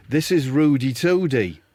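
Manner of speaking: put-on tentative Scouse accent; half-confident Scouse introduction; Wade Rooney. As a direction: try out a Scouse footballer's voice. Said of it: "I can't do Scouse".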